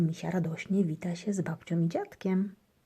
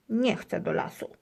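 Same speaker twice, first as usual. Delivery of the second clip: whiny hamster; 5 semitones higher than usual. A narrator's reading. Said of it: "marudzi Gryzek".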